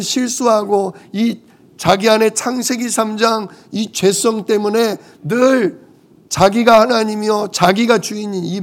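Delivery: acted pleading on others' behalf; mildly imploring prayer; intercessory prayer. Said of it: "중보기도라는 거예요".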